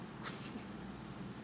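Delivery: quiet, breathy little laugh; soft laugh. Real, not acted. Streamer amused at her own accent attempt, soft laugh. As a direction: laugh softly under the breath.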